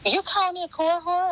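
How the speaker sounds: sharply high, offended question; indignant disbelief. Retold or imitated. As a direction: throw the insult back in disbelief. Wife's friend retorts, offended quote.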